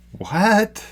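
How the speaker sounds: high squeaked disbelief; baffled, pitch shooting up; incredulous "What?". Real, not acted. Disbelief at the imagined logic.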